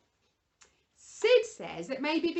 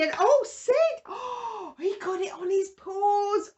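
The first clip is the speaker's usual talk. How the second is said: surprised; 6 semitones higher, 7 dB louder, slower than usual. Real, not acted. Puppet gets paint on paws.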